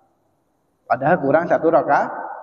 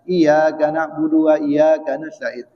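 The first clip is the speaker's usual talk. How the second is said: slow, measured verse recitation; Quran recitation; slower than usual. Shown as a demonstration. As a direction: draw out the verse evenly. (lantunan ayat yang pelan)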